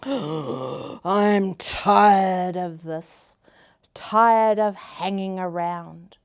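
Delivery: whiny lazy caterpillar, slowed on the complaints; a caterpillar moaning about his chores; griping caterpillar. Acted. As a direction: gripe and moan like a bored bug. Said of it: "he started to gripe".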